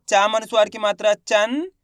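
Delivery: teacher's sing-out of the spelling up to "चंद"; spelling-out demonstration. Shown as a demonstration. Teacher showing how the word is read, spelling-out demonstration. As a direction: spell the letter and sign, ending on a rising nasal "चंद". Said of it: "कैसे पढ़ेंगे?".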